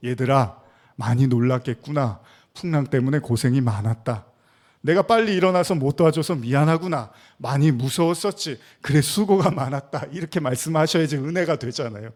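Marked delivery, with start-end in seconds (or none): 0.1-10.1 warm consoling. Acted. Jesus imagined consoling his frightened disciples, warm and tender. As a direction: console them like a caring teacher. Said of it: "따뜻한 이야기".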